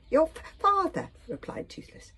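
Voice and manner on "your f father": slow, high, spluttered through a mouthful; mouth full. A narrator's reading. Dragon answering Hiccup with cheeks stuffed, mouth full. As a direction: stumble on the consonants round cookies. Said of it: "spoke through a mouthful of cookies".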